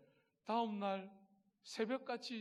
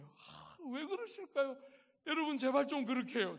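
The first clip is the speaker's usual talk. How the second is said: louder, annoyed pleading; irritated plea; 7 semitones higher, 6 dB louder than usual. Retold or imitated. Preacher reenacting his irritated rebuke to the congregation, annoyed plea. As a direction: scold them in mock irritation. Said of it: "제가 막 짜증냈어요".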